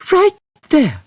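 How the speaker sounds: high, firm, pointing; Trillian's voice. A narrator's reading. Trillian insisting to Zaphod, high and firm. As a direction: stress on right. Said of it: "she pointed".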